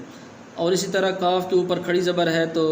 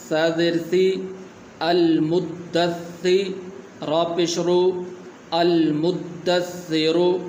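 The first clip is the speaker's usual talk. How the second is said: slow letter-by-letter spelling, like a teacher; slow spelling drill; slower than usual. Shown as a demonstration. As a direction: spell it out for beginners. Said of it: "اگلا لفظ".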